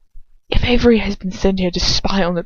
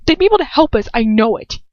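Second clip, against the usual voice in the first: pleading, raised conviction; insistent; 4 semitones higher than usual. Acted. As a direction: hold on to hope. Heroine pleading.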